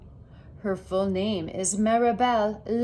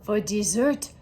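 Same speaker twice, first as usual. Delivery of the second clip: mom voice; 3 dB louder than usual. Acted. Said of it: "my mom says".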